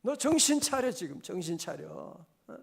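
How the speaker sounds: sharp scolding of himself; self-rebuke. Retold or imitated. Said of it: "막 그러게".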